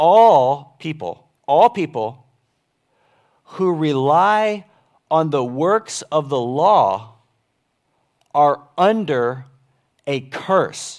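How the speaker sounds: very slow, careful, deliberate reading, "All" stretched. Speaker rereads a passage aloud to listeners, reading slowly. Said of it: "I'm going to read them slowly".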